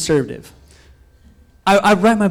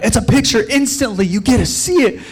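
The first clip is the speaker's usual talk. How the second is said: retold excitement; 5 semitones higher than usual. Showing dad the camera excitedly.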